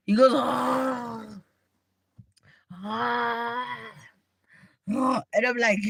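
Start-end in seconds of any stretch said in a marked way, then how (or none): 0.3-3.9 snoring. Retold or imitated. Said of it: "He snores".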